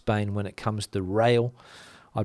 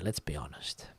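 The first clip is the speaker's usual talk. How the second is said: much lower, softer aside; muttered aside; 9 semitones lower, 16 dB quieter than usual. Real, not acted. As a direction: mutter it under your breath. Aside after repeat.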